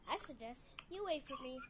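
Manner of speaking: whispered mock threat; menacing whisper. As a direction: hiss it as a warning.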